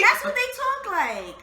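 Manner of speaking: laughing. Real, not acted. Laughing banter.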